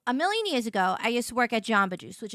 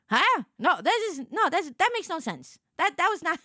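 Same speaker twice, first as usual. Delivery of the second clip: confused denial; 5 semitones higher than usual. Retold or imitated. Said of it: "I was like".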